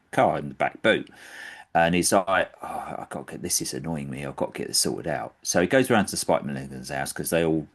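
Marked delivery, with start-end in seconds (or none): 2.6-5.4 muttered under the breath, much softer; annoyed mutter. Retold or imitated. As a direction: grumble it quietly to yourself, irritated. Annoyed Sellers muttering about squeak.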